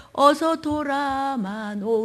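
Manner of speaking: very slow, drawn-out plea; tender pleading. Acted. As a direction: ache for the child's return. Father longing for child's return.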